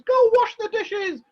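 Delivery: slow, bossy order; mother ordering the genie to wash the dishes; bossy command. Acted. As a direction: boss the genie about.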